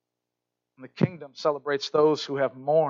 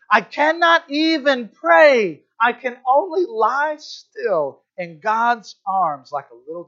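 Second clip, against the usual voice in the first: frail and weak; 5 semitones higher, slower than usual. Retold or imitated. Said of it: "he says".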